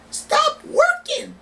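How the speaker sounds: high, slow drawn-out cry of stop working; stretched high protest cry; rallying cry. Real, not acted. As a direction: belt it out like a protest chant.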